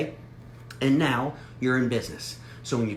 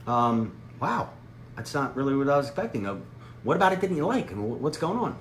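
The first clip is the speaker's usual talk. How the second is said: totally shocked; 2 semitones higher than usual. Shown as a demonstration. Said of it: "just be totally shocked".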